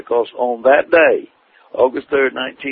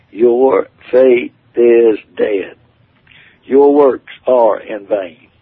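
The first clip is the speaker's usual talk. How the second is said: slow, heavy, louder pronouncement of judgment; God's thundering voice; 4 dB louder, much slower than usual. Retold or imitated. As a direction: hand down the verdict slowly like rolling thunder. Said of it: "His voice was like the sound of thunder".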